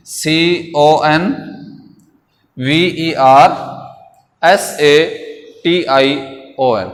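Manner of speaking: letters spaced out with pauses; slow dictation. Shown as a demonstration. Teacher repeats spelling for correct writing, slow and spaced. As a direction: spell it slowly so they write it right. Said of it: "spelling सही लिखने हैं".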